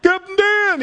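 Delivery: high shouted call across the water; excited shout. Retold or imitated. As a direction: yell out in joyful recognition. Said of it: "It's like".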